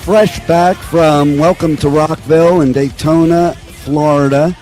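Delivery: lost voice, hoarse and strained; talking through a shot voice. Real, not acted. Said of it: "I lost my voice".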